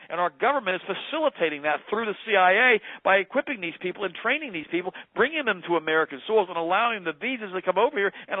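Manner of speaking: heated, indignant recital of an email; angry email retold. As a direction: argue it with mounting exasperation, pitch climbing. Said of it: "really terse email".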